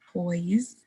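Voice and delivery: "toys" slowly sounded from a crisp T; T sound shown. Shown as a demonstration. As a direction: show the T that starts "toys". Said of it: "for this T sound".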